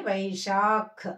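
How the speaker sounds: slow "వైశాఖ్" with a puff of air on the final kh; aspirated kh. Shown as a demonstration. Teacher explains the aspirated letter, "వైశాఖ్" ending in breathy kh. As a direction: release breath on the last sound of "వైశాఖ్". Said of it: "గాలి వదులుతూ పలకాలి ఖ అని".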